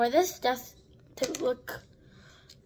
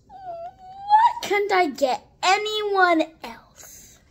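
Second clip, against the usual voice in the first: very slow, higher mock-crying whine; drawn-out whine; 5 semitones higher, much slower than usual. Real, not acted. Stuck with Mentos again, mock-crying. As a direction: stretch it out in mock despair. Disappointed with her doll.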